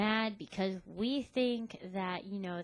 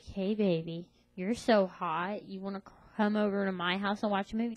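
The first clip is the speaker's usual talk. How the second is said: mock sleazy pickup guy; 5 dB louder than usual. Mocking guys' cheesy pickup lines.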